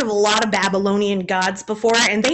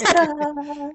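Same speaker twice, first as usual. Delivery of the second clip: showy ta-da; 5 semitones higher than usual. Pretend. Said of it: "Will Smith ... going".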